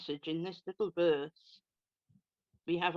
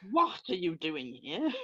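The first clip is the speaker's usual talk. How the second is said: a stern playground teacher's challenge. Shown as a demonstration. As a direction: ask it like a teacher catching a pupil. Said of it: "That's my best teacher voice".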